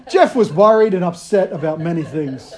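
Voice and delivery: chuckling through the line; amused self-mocking read; laughing. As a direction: laugh as you read your own epitaph. Imagined tombstone joke.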